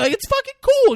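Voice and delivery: high, loud mock insistence; hammed-up argumentative shout; acted yelled retort. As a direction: insist at the top of your voice. Friends yell back in the quarrel.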